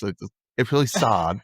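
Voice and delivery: lightly imitated regional TV-character accent; a touch of a borrowed accent; Kelly's accent. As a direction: put on her accent for the line. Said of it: "I love how you do the accent".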